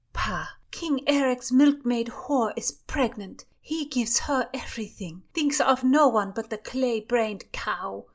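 high, loud contemptuous rant; a lady-in-waiting ranting about the king, high and loud; scornful lady-in-waiting. Acted. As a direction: spit out her contempt for the king.

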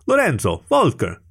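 narrated shout, held back in volume; shouted greeting. A narrator's reading. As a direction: call out both names in a lifted voice. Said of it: "he shouted".

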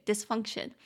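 "dysfunction" with FUNC stressed; teacher's demo of "dysfunction", accent on FUNC; stress on second syllable. Shown as a demonstration. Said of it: "中音节比较高的音节在第二音节".

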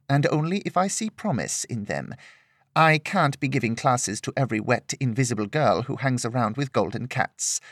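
a hint of a patient teacher turning her down; stern older sword mistress. Older mistress addresses Lillian.

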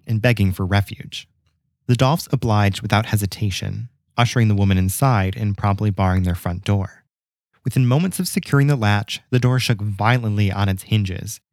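measured storyteller's read with pauses; scripted tale, deliberately paced; story narration. A narrator's reading. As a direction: narrate an old local legend, phrase by phrase. Reads the legend aloud.

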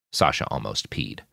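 ordinary delivery

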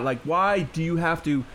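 high incredulous pleading; exasperated. Real, not acted. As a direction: throw your hands up in disbelief. Ranting about Breitbart article.

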